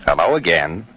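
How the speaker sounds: low, measured radio host greeting; Jack Benny. Acted. Engineer testing the mike as a show host, Jack Benny impression. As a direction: open the show in a deep, unhurried voice. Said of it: "This is Jack Benny".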